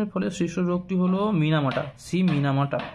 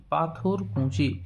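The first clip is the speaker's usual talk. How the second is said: slow repeat; much slower than usual. Shown as a demonstration. Teacher repeats answer slowly.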